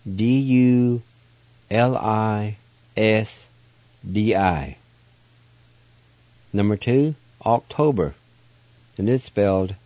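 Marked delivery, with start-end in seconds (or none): 0.0-4.8 letters read slowly one by one; spelling out letters again. Shown as a demonstration.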